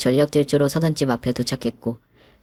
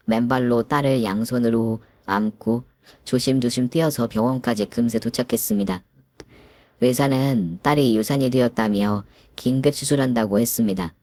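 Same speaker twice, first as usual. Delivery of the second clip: usual speaking voice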